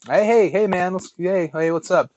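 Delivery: high, flustered hey hey hey; nervously overeager hello to a stranger; flustered greeting. Retold or imitated. Teller greeting the tattooed stranger, high and flustered.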